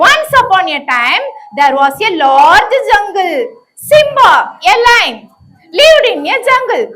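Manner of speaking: put-on lively storytelling to children; story narration. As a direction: tell it like a puppet show for kids. Teacher narrates puppet story.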